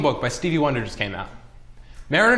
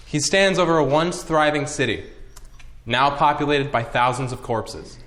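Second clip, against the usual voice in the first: clickbait video narrator. Acted. Mock documentary narration.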